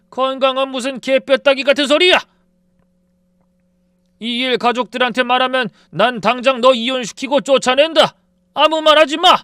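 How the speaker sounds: father-in-law yelling threats of divorce; raging yell. A narrator's reading. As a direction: bellow the threats in fury.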